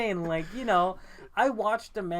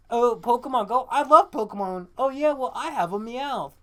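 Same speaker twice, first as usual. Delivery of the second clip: mock ad voice; 4 semitones higher, 5 dB louder than usual. Mocking ad characters.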